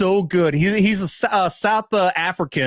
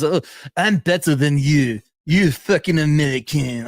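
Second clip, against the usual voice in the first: mock French accent; 2 semitones lower than usual. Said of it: "that's like a French accent".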